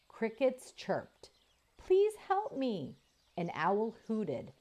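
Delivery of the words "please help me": high, pleading calf voice; wounded calf cry. Acted. Robot mimics a wounded calf to lure wolves, high and pleading. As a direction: beg like a hurt calf in the dark. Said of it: "The calf's voice continued crying out".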